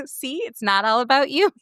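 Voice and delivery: teasing. Retold or imitated. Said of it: "John would always be like".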